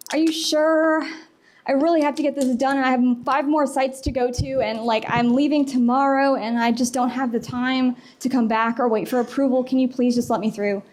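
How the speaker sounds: lightly acted appeal for a favor; pleading for sympathy. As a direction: plead a little, as if short on time. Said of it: "play on sympathy".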